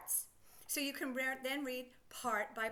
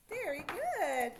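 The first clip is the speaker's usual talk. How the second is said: slow, drawn-out very good; praise; 3 semitones higher, much slower than usual. Real, not acted. Teacher praising the children, slow and drawn out. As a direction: praise them slowly and warmly. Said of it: "praise to pupils".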